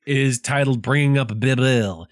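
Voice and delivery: amused, words carried on a laugh; laughing through it. Real, not acted. Amused and chuckling, reading the book title to cohosts. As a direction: still chuckling while naming the American title. Laughing after the accent joke.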